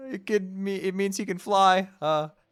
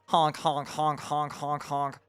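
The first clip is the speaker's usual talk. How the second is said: silly clown; 3 semitones lower, slower than usual. Acted. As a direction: honk like a goofy clown, trailing off. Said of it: "nothing but honks".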